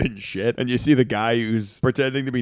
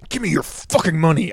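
cartoon demand; 6 semitones higher than usual. Copies Muggs Bunny's demand.

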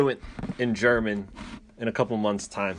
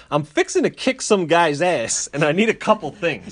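mock yokel voice; 5 semitones higher, 6 dB louder than usual. Friend mocking him shopping for boxing gear, hammed-up country voice. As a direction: play a dumb hick asking for help. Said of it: "He went into Dick's and he's like".

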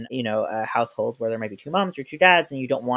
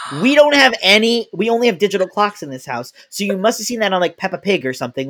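mock exasperation; 7 semitones higher, 7 dB louder than usual. Telling toddler about clocks.

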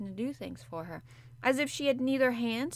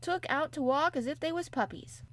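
a touch of a broad Yorkshire maid lecturing; Yorkshire maid, unhurried; lightly voiced Yorkshire maid; 3 semitones higher than usual. Martha's Yorkshire voice.

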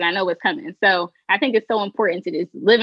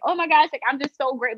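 fangirl moment; 5 semitones higher than usual. Retold or imitated. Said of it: "I had a whole fangirl moment".

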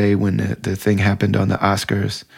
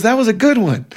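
much higher wry imitation of a friend; injured friend jokes with the doctor, high imitation; imitating Julie; 13 semitones higher than usual. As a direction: say it high and game through the pain. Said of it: "She goes".

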